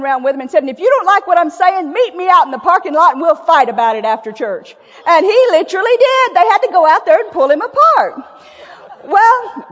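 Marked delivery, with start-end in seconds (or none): 0.6-4.8 mock challenge. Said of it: "he just railed them up and down".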